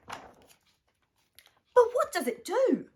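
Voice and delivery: slow, drawn-out, high puzzled question; baffled slow musing. Acted. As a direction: stretch it out, wondering. Harvey puzzled.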